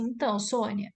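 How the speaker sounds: demonstrated empathetic lead-in, measured pace; understated conciliatory tone; acknowledging, then questioning. Shown as a demonstration. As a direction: acolher first, then ease into the question. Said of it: "primeiro você acolhe".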